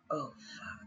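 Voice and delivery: voiceless retold sinking realisation; whispered dismay. Actress learning Mel Gibson decides, whispered dismay. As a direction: breathe it out as it dawns on you. Retold dawning horror at the news.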